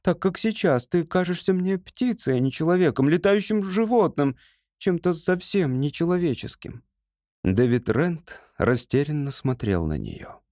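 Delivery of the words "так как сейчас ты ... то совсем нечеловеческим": higher, lightly voiced young woman; Ruth's voice. A narrator's reading. Ruth telling David how he seems to her, higher voice. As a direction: lift the voice for Ruth as she speaks.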